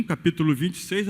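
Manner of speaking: ordinary talk, nothing marked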